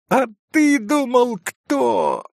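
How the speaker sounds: high, bright boast that drops on кто; mildly hammed-up gleeful call; ringing happy shout. A narrator's reading. Boy shows his friend the found dog, gleefully. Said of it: "Звонким, счастливым голосом изо всей силы завопил".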